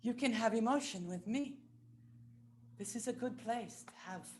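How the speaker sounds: soft, gentle reassurance; welcoming. Acted. Telling someone their emotion is welcome here, soft and reassuring. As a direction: softly invite someone in.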